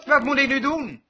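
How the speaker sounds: stotterend, angstig gebed nagedaan; mock stotterend gejammer. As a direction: speel een bange twijfelaar die stamelt. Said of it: "riep hij nooit". (spottend nagedaan bang gebed)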